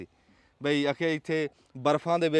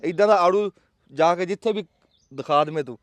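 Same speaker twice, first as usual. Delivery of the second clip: dramatic loud aunty; 2 semitones higher, 5 dB louder than usual. Real, not acted. Boasting challenge about the peaches.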